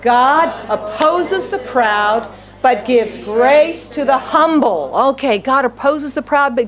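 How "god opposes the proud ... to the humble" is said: slow, measured reading aloud with the church; slow unison reading. Shown as a demonstration. Preacher leading the congregation in reading the verse, slow and measured. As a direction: read each word slowly together. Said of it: "Read with me both".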